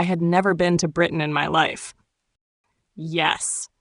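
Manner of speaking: put-on stranger answers in a thick Russian accent. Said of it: "he said with a thick Russian accent".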